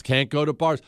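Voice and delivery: ordinary delivery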